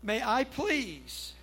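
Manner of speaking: husband sweetly asking his wife for a coffee break; asking very kindly. Retold or imitated. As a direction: ask your wife nicely, drawing it out. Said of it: "I asked very kindly".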